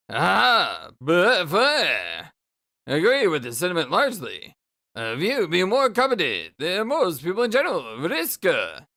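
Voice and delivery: improvised weepy sprite voice. Acted. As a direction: make up a whiny ghostly sprite voice. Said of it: "I'll just go with it".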